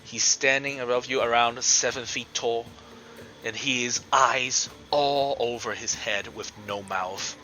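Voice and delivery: slow, deliberate monster reveal; game master's scene setting. Acted. Game master unveils an abomination to the players, suspenseful narration. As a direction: describe it slowly, phrase by phrase, with pauses.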